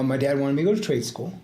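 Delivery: ordinary delivery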